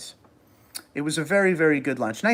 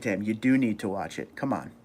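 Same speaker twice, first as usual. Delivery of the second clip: ordinary talk, nothing marked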